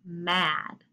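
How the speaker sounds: very slow, deliberate reading of the sentence; teacher reading a sentence slowly to young pupils; slow read-aloud. Shown as a demonstration. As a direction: read it out word by word for the class. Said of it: "Then it says".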